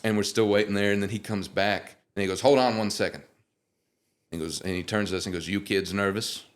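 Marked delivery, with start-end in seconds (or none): 2.4-3.2 a touch of a smooth, easy crooner; lightly voiced star asking them to wait; impression of a singer. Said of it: "these voice impressions are spot on". 5.5-6.4 impression of a singer. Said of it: "these voice impressions are spot on".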